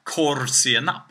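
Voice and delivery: korvsenap with Swedish stress on korv; Swedish compound. Shown as a demonstration. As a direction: say korvsenap as one Swedish word. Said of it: "if you stress it in the right way".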